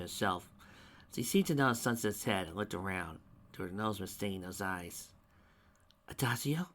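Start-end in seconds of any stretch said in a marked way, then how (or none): 6.1-6.7 disbelieving whisper. Acted. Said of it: "Sunset whispered, disbelievingly".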